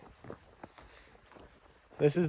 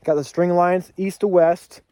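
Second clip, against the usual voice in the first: out of breath; 5 semitones higher, 6 dB louder than usual. Real, not acted. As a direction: still winded and breathing hard. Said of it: "Sorry, I'm out of breath".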